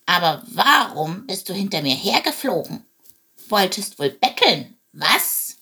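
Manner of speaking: put-on stern old raven voice. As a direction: turn strict and suspicious. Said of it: "Dann wurde seine Stimme streng".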